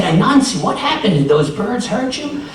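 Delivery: high, loud worried voices; concerned neighbors. Acted. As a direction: ask with alarm.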